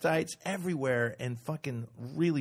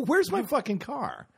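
angry demand; 12 semitones higher, slower than usual. Retold or imitated. Demanding car from valet.

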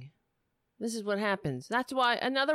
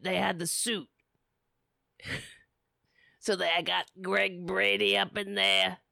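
lightly strained, mocking character voice; strained put-on voice. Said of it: "That hurts my voice".

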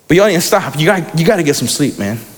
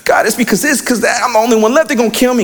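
higher, rushed mock complaint; venting; 5 semitones higher, faster than usual. Preacher as Elijah complaining to God, venting. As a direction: pour out grievances to God in a raised pitch. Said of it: "give Elijah time to vent".

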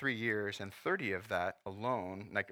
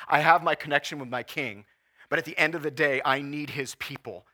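impassioned plea; 3 semitones higher, 5 dB louder than usual. Retold or imitated. Voicing lonely singles' plea.

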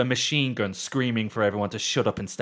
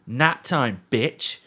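menacing line; 3 semitones higher, 6 dB louder, much slower than usual. Retold or imitated. Villain granny line in tweet story.

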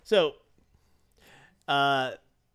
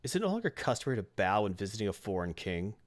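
a hint of a lordly challenge, measured out; kingly rebuke; 5 semitones lower, 3 dB quieter than usual. Thor haughtily challenges visiting Loki.

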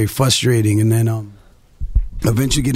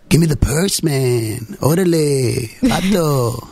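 lightly put-on street Latino accent, pitched up; exaggerated Latino accent; 3 semitones higher, much slower than usual. Casting director demoing a stereotyped Latino accent, mock Chicano street accent. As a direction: ham up a Chicano street accent on "give me the purse, man". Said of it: "a little bit more Latino".

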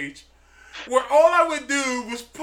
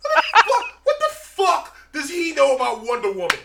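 mocking scorn; 2 semitones higher than usual.

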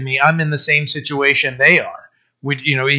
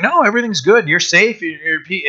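mock sweet-talker; 4 semitones higher than usual. Mimicking deceivers reassuring neighbors.

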